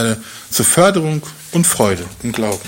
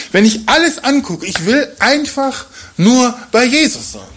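longing Paul; 8 semitones higher than usual. Retold or imitated. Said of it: "Er sagt".

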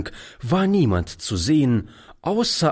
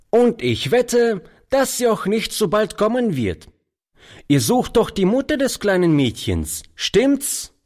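put-on street boy; 12 semitones higher than usual. A narrator's reading. Street boy keeps talking.

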